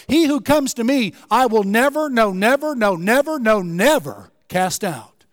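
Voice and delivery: country preacher. Retold or imitated. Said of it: "One country preacher heard this and he said".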